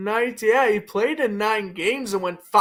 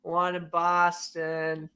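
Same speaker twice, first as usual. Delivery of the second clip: put-on soft slow Boston accent; Boston accent, r dropped; 5 dB quieter, much slower than usual. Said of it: "I love breaking into my Boston accent".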